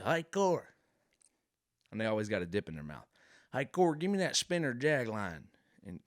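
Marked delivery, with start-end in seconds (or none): 0.0-0.7 high, loud put-on redneck call; comic Southern redneck yelling to a buddy. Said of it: "they will give you the weirdest names". 3.5-5.4 higher, louder comic redneck demand; mock redneck asking for bait. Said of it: "they will give you the weirdest names".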